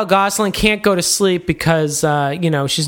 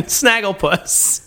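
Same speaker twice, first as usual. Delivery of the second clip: slow drawn-out cartoon voice; Snagglepuss impression; much slower than usual. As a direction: stretch it like Snagglepuss. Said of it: "I've got two impressions".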